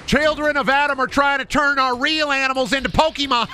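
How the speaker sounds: high, put-on villain voice; hammed-up cartoon villain; mock villain. A hammed-up villain scheming to make Pokemon.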